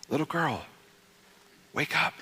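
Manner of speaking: put-on soft, coaxing, like waking a sleeping child; gentle wake up. Shown as a demonstration. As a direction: gently rouse your little daughter. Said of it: "That's kind of the heart behind that phrase".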